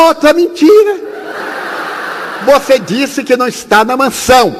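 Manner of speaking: put-on high, accusing little boy; child's voice. Julinho accusing the uncle of lying, high child voice.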